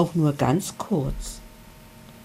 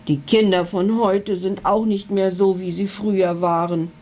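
growling dragon. Acted. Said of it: "knurrte er unverständlich".

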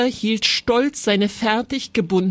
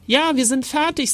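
higher, strained moan; groaning; 6 semitones higher than usual.

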